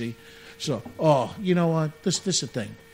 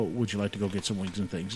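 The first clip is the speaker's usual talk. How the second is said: imitating James; 8 semitones lower, 9 dB quieter than usual. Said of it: "plant a seed for him to go".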